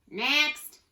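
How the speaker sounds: high, loud summons; barked order. A narrator's reading. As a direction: order the next one up. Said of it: "ordered the pirate".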